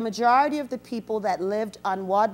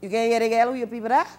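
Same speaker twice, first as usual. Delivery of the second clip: loud Gullah question, rising; imitating islander's Gullah; 3 semitones higher, 6 dB louder than usual. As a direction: ask it in Gullah. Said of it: "So he says".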